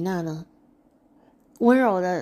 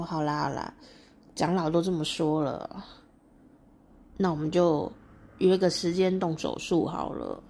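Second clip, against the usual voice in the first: resigned giving in; 2 semitones lower than usual. Acted. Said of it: "努涅斯就非常痛苦".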